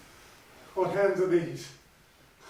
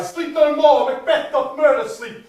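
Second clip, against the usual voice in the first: eerie crying voice; 4 semitones higher than usual. Retold or imitated. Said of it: "I heard a voice cry".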